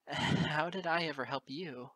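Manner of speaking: laughing through the question in disbelief; half-laugh, half-accusation; bitter chuckle. Acted. Moon Dancer asking Lyra how she helped, bitter laugh. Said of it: "I gave a bitter chuckle".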